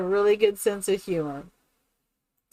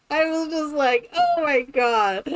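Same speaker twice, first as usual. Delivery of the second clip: amused disbelief; 5 semitones higher than usual. Retold or imitated.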